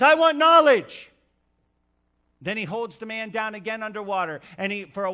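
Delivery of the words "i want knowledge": much higher, loud, slow breathless cry; a man just pulled out of the water, desperate; gasping for air. Acted. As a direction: gasp it out as if half drowned. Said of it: "the man gasping for air".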